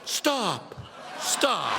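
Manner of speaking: restrained, falling protest; half-hearted call to halt; mock yell. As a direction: unenthusiastic heckle. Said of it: "They yell".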